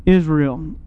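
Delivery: earnest, understated letdown, dropping on the last word; mild disappointment. Acted. Preacher re-voicing two disciples' lost hope, mildly disappointed. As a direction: press the hope, then let it fall. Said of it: "You hear the disappointment of these two disciples".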